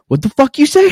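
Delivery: hammed-up drunk fury; mock high-pitched angry challenge; drunk outrage. Drunk angry retort retold.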